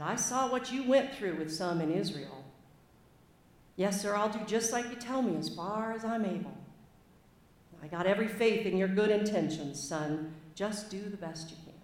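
lightly put-on American Southern accent. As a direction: read old Moses with a modest Southern accent. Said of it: "apologies for my terrible accent".

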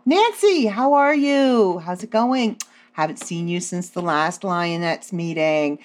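a light impression of a chatty mother on the phone; friend's fake mom. Friend pretending to be her mom on the phone, lightly mimicked. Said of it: "pretend you're your mom".

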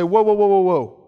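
mock alarm. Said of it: "and they say".

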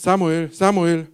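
loud call across the temple; loud voice calling Samuel. Acted. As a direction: call his name into the night, loud. God calls the sleeping boy.

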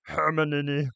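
put-on mangled Bulgarian accent on the name; slow, botched Bulgarian-accented name; bad Krum accent. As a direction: attempt a Bulgarian accent, badly. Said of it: "I can't do a Victor Crumb accent".

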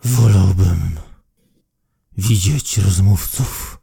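low, slow words through clenched teeth; through gritted teeth. Acted. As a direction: speak without opening the jaw. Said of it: "mówi przez zaciśnięte zęby".

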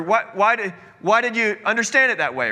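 demanding an answer, impatient; imitating a harsh husband. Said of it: "talking harsh to my wife".

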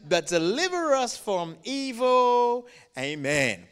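measured, projected communal prayer; leading prayer recitation. Real, not acted. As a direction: lead a congregation reciting together. Leading congregation in Lord's Prayer.

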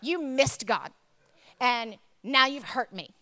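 retold reproach, loud opening word, pauses between blows; angry retort to husband. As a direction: land each accusation separately. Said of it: "I'm furious".

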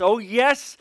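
slow and clear, each word of I love Jesus set apart; a girl's clear, simple confession. Retold or imitated. Teenage girl tells church she loves Jesus, clear and slow. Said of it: "said in the most clear voice".

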